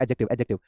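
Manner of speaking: एडजेक्टिव with the d dropped, ejective; silent d. Shown as a demonstration. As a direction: say एडजेक्टिव without any d sound. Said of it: "जी silent करके कह रहा हूँ". (एडजेक्टिव डी silent करके बोलें)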